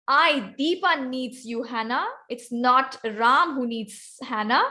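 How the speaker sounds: I picked out as the important word; slow, pointed emphasis on I; stress on I. Shown as a demonstration. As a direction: make clear it is I and nobody else. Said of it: "So I'm stressing the word I".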